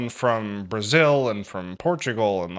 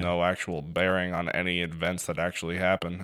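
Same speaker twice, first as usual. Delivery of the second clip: John; 4 semitones lower, 5 dB quieter than usual. Retold or imitated. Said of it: "John, always the forever optimist".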